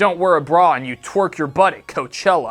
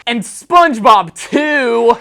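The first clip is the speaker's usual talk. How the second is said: loud aside; 5 semitones higher, 7 dB louder, slower than usual. Acted.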